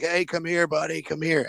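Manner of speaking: high, hushed beckoning; eager cop calling. Retold or imitated. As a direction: imitate a cop keenly calling a pal over. Cop calling Harpo over again.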